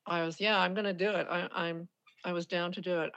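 talking while chewing gum; words around a wad of gum. Real, not acted. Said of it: "Pardon my gum".

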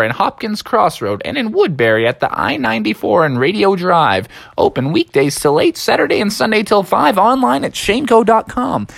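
gloating radio-ad pitchman; Tom Shane. Acted. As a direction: rattle off the shop plug with relish. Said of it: "he was cackling to himself".

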